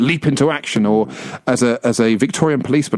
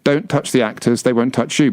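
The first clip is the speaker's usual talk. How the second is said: plain, no-nonsense instruction; serious warning. Shown as a demonstration. Guide warning visitors off the actors, meant seriously. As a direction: deliver it straight, without the jokes.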